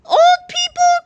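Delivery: put-on high, loud, offended old-man cry; outraged old man. A narrator's reading. Old George insulted by the kids, loud cranky cry. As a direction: howl it like an insulted grandpa. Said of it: "cried old George".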